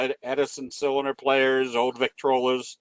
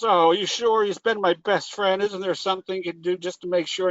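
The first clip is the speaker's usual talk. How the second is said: a lightly voiced fretful woman pleading with the vet; pleading distraught lady; 5 semitones higher than usual. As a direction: play the lady desperate for her dead parakeet.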